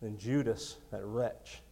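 a lightly voiced poem reading; preacher reading his own poem to the church; poem recital. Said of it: "wrote this poem in college I want to share with you".

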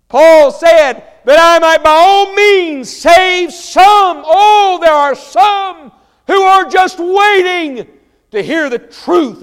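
high, booming pulpit cry, words drawn out; full-force preaching. Real, not acted. Preacher urging God's love on the congregation, full-force preaching. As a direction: preach it loud and impassioned, stretching the phrases.

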